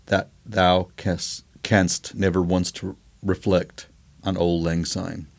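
put-on slow, soft old-verse recital; quoting the old Scottish verse, slow and soft; poem recital. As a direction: read it like a solemn old verse. Recites the Auld Lang Syne verse.

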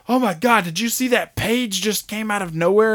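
high, loud gushing exclamation; mock amazed. Imitating a character, high loud astonishment. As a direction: gush like it's a shock. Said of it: "It's like".

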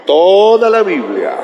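"toda" drawn out long before "la Biblia"; stretched emphasis. Shown as a demonstration. Pastor repeats the demonstration for congregation, long-held "toda" in "toda la Biblia". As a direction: sweep slowly through a long "toda".

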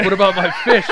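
high, loud put-on question; naive Penguin impression. Penguin asking after his goldfish, mock alarmed innocence.

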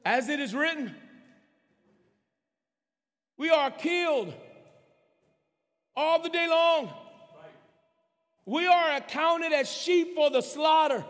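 slow, weighty Bible reading; slow scripture reading. Real, not acted. Pastor reading a passage to the congregation, slow and deliberate. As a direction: read it out slowly, phrase by phrase. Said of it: "trying to read it slow".

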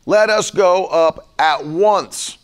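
"Let us go up at once" read slow and weighty; solemn slow reading; slow, deliberate scripture reading. Shown as a demonstration. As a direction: lean on each word slowly. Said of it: "right there is your key".

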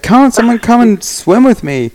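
imitating Cooper. Friend calling from the glacial river, high hammed-up invitation. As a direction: squeak it out like a giddy friend waving everyone into the water. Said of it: "And he's like".

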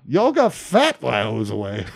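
lightly done actor impression; a hint of a quirky gangster-actor voice; Christopher Walken. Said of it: "Christopher Walken".

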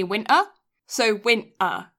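winter with the T left out; dropped T. Shown as a demonstration. Friend demonstrating winter to friend, T dropped. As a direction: say "winter" without sounding its T. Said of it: "not say the T in winter".

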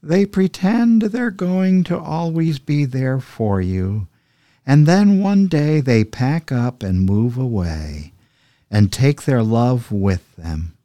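slow, high-pitched female cat voice; Mittens cat voice. Pretend. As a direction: purr it out like a wounded stray cat. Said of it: "simulate, uh, a female cat voice here now".

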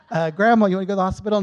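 loud retold call to an elderly relative. Asking grandma about the hospital, calling out. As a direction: raise the voice sharply to be heard.

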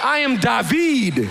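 David stretched slowly into da-VEED; emphasis on second syllable. Shown as a demonstration. Preacher showing off the emphasis, David said slowly as da-VEED. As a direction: pompously stress the last syllable of David. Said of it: "put this emphasis on this syllable".

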